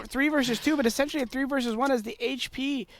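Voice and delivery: mock play-by-play caster. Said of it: "our best play-by-play impression".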